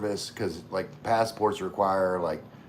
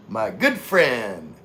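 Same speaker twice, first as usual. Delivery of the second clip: Gino voice; 5 dB louder, much slower than usual. Retold or imitated. Repeating the Gino bit.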